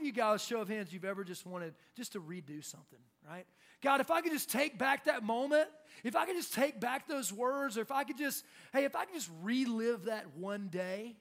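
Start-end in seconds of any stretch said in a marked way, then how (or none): 3.8-11.2 loud, higher-pitched plea to undo it; pleading regret. Acted. Someone longing to redo a past moment, pleading regret. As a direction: wish aloud, high and loud. Voices people wishing for a do-over.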